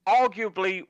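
high-pitched disbelieving rant, slowing on the key words; retelling his outrage at the goalkeeper's blunder; retold exasperated rant. To his mate, retelling the game's absurd goal, high exasperated rant. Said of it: "And I'm just like".

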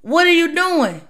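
a touch of a stern talk to a coworker; firm warning. Retold or imitated. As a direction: warn a teammate firmly, unhurried start. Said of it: "You may have to talk like that to 'em".

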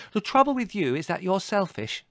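high, loud sisterly scolding; cross accusation. A narrator's reading. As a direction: pronounce the verdict indignantly. Margot accuses Larry in quarrel.

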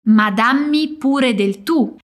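slow it down for the learner to follow; slow for repeating. Shown as a demonstration. Teacher repeating slowly with the student. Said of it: "Ripeti con me".

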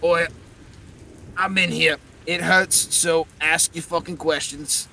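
loud, raw, echoing dead voice; haunting ethereal echo. Acted. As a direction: rasp it out like a pained ghost. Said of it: "Winston's voice cough out".

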